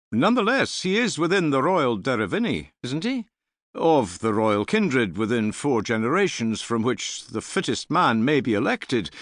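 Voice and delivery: high, questioning voice of the scholar; Cillian's voice. A narrator's reading. Cillian calling from the end of the hall, high and probing. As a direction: needle the chief with a pointed question.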